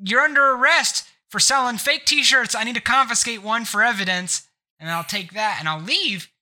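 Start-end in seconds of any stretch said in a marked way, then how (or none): 0.0-4.5 a fake cop confiscating a t-shirt as evidence; mock cop. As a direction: play a fake cop making an arrest. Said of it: "cop's uniform".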